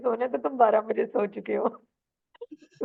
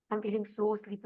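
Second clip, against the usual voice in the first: sleepy demo; 6 dB quieter, slower than usual. Shown as a demonstration. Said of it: "पूरी feeling आनी चाहिए".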